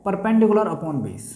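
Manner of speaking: slow, deliberate repeat of "perpendicular upon base". Shown as a demonstration. Teacher repeating the ratio for students to write, slowly. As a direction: spell out "perpendicular upon base" slowly so they can note it. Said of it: "ठीक है, क्या होता है".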